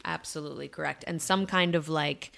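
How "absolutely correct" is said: unvoiced hushed agreement; whispering. Real, not acted. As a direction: breathe the words without voice.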